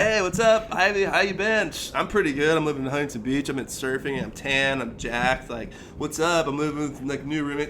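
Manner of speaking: upbeat show-off voice, starting high and loud, easing down; bragging. Retold or imitated. Him messaging his ex on MySpace, bragging. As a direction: act out breezy boasting to an ex. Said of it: "Just bragging to her".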